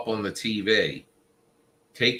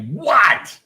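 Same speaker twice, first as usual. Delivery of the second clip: mock startled what; 11 semitones higher, 9 dB louder than usual. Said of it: "did you wake up and say".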